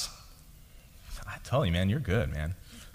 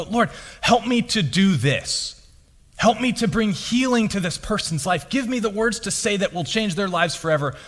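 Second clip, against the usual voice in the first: higher-pitched, mildly urgent plea to God; pleading prayer; 6 semitones higher than usual. Acted. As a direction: act out an earnest appeal for help. Acting out an anxious, self-reliant prayer.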